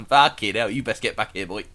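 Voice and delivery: hammed-up London outburst; loud mock London lad; proper London accent. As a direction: summon someone in broad London. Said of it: "Just some proper London accent".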